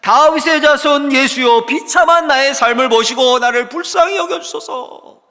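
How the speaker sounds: high, sustained shout of desperate faith; full-throated crying out. Acted. Blind Bartimaeus begs Jesus for a new life, wailing shout. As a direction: plead at the top of your voice. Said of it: "목 놓아 부르짖어 소리치는 겁니다".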